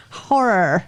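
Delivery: "horror" pushed out through a tight, choked throat; strangled voice. Retold or imitated. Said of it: "That's what you sound like every time you say".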